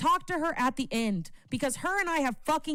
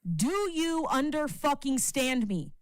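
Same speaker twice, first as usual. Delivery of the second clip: raised, defiant rant; heated yelling; 3 semitones higher than usual. Real, not acted. Streamer defending Irish, yelling at the chat. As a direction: stand your ground for her. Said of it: "we all will not shut the fuck up".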